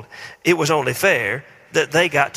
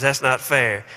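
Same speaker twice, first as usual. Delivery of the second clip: put-on whiny child. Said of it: "have heard these words".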